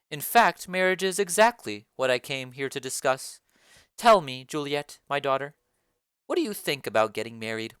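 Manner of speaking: low, commanding lady of the house; Lady Capulet. Acted. Lady Capulet calls the nurse for her daughter, low and commanding.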